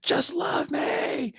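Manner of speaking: high, slow, breathy whispered plea; hammed-up whispered begging; mock desperate plea. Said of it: "punching himself in the face hella hard, going".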